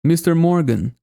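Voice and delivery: Mister Morgan, are you okay, with American R and a rise on okay; American accent. Shown as a demonstration. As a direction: imitate the character's line in American English. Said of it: "O auxiliar antes do sujeito". (imitação em sotaque americano)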